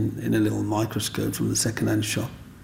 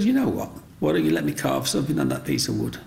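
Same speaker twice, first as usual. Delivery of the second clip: eager pitch; 4 semitones higher, faster than usual. Retold or imitated.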